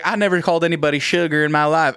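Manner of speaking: quick imitated Alabama accent; playful Southern accent impression. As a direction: imitate a Southern woman's phrase, briskly. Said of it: "she has this Alabama accent".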